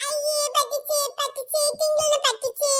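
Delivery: sing-song mocking taunt; teasing gloat. Revealing the prank to Tinkle, gleefully teasing. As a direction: rub the prank in playfully.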